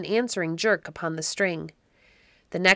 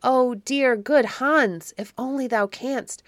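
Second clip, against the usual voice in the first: put-on higher, louder plea of a captive boy; crying out; 6 semitones higher, 4 dB louder, slower than usual. A narrator's reading. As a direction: plead eagerly in a raised storybook voice. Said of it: "cried Otto".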